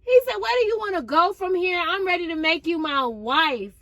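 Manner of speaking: high, fast excited retelling of a proposal; breathless girlish excitement. Retold or imitated. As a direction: gush it out, rushing and squealing.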